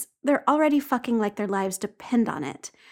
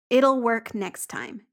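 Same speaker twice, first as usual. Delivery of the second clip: firm; slower than usual. Acted. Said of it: "Jamie says firmly".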